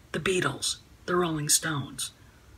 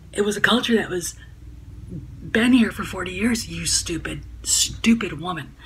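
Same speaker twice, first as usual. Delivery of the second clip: angry; 3 dB louder than usual. Real, not acted. Angry rant at tweeter.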